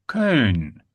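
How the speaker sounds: Köln with a long rounded ö, falling tune; German ö demo. Shown as a demonstration. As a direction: model Köln, holding the German ö. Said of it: "managed to get that ö sound".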